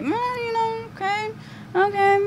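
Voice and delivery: high, soft, near-crying little voice; a hint of tearful doubt; mock teary self. Retelling her own hesitant reaction.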